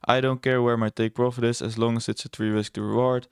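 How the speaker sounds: lightly mocking a know-it-all trader; sarcastic imitation. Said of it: "I'm being very sarcastic right now and imitating I C T traders".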